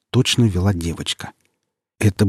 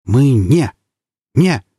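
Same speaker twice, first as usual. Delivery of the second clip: high, louder panicked squeak; stammering in a trembling squeak; squeaky trembling voice; 5 semitones higher, 5 dB louder, slower than usual. Acted. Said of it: "Голос стал немного писклявым, дрожащим".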